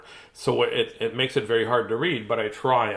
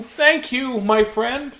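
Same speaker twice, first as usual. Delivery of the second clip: high-pitched grateful call; lifted, singing-out thank you; 13 semitones higher, 8 dB louder, much slower than usual. A narrator's reading. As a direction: call out your thanks from the rope.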